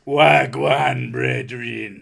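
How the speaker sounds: mock Jamaican accent, slow. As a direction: lay on a thick Jamaican accent. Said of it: "Jamaican accent there".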